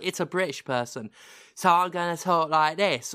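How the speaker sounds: imitating a bad rock band British voice; mock British accent. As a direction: put on a clumsy American take on British. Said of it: "just the rock band voice".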